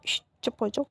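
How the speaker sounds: quiet him gently; soft hush. A narrator's reading. Aunt comforting Wing with a soft hush.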